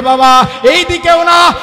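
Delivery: high, loud and slow plea to his father; child pleading loudly. Acted. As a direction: drag out the last no. Son grabs father's hand. (ছেলে বাবার হাত ধরে জোরে বলছে)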